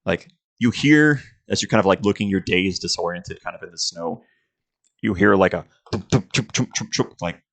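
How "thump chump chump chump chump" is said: quick run of thudding footstep noises; rhythmic vocal footstep effect; imitated footsteps. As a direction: mimic many feet tramping closer. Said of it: "the sound of many footsteps".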